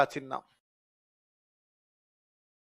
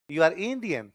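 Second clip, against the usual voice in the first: put-on Russian accent; 4 dB quieter, much slower than usual. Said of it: "तो बोलेंगे India".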